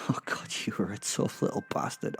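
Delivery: chuckling under the breath; whispered laugh. Acted. Gloating over an old kill.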